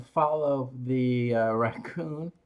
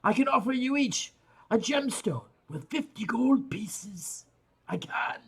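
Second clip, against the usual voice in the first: speaking Dwarvish; 3 semitones higher than usual. Acted. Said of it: "switching over to Dwarvish".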